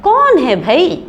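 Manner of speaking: an annoyed call, woken up from sleep; husband disturbed by sweeping, calls out irritated. A narrator's reading. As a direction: snap out who is there, mildly. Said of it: "शौहर झुंझलाकर".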